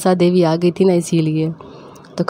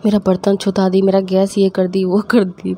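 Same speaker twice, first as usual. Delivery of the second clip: wailing mom. Retold or imitated. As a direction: imitate mom lamenting her pots. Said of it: "mummy ... बोलती". (ऊँची ज़ोरदार विलाप करती mummy की नकल)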